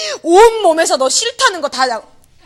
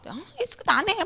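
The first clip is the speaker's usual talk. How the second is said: slurred possessed man; 5 semitones higher, 10 dB quieter than usual. Retold or imitated. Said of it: "남자애가 이런 목소리로 막 이러는 거예요".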